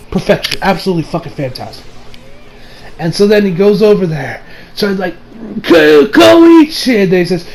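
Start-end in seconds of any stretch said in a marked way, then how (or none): 5.6-7.0 high, drawn-out mock cry; calling out in alarm. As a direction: yell the name long and high. Acting a character's cry for Koichi.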